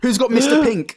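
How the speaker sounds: high loud eager collector; excited kid voice. Pretend. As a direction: shout it like a kid trading stickers. Voicing a sticker-trading kid.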